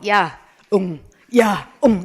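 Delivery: spoken mock meows; cat meow imitation. Teacher quoting her cat begging for food, light meow imitation. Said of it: "이렇게 울어요".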